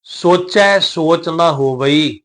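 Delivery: slow recitation with drawn-out vowels; scripture recitation. Shown as a demonstration. Teacher models the verse for learners, slow recitation. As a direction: recite phrase by phrase, stretching the endings.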